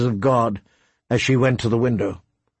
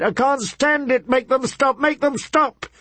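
much higher, desperate sobbing plea; grieving mother begging her son to stop the howls; hysterical crying; 12 semitones higher than usual. Acted. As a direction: break down completely, begging. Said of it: "she cried".

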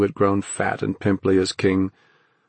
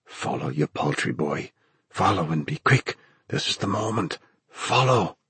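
impatient father; 4 dB quieter than usual. A narrator's reading. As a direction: order the boy like a harsh father. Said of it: "impatient now, brooking no refusal".

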